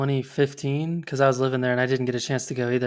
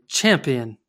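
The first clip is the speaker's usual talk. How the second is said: put-on a light touch of Australian accent; Australian slang imitation. Host showing what Australians say for awesome, light Australian accent. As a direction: say it as an Aussie would. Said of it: "a lot of Australians say".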